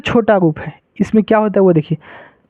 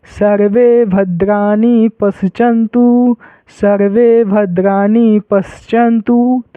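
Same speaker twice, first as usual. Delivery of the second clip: slow continuous chanting; mantra recitation; much slower than usual. Shown as a demonstration. Teacher reciting the full mantra for the class. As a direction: chant the whole mantra steadily. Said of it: "इसको थोड़ा speed में पढ़ेंगे कैसे".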